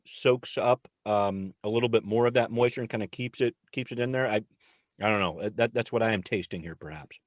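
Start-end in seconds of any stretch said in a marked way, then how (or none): 0.0-4.3 talking while chewing a cookie; words round a mouthful of cookie; mouth full. Real, not acted. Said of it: "I'll talk with my mouth full".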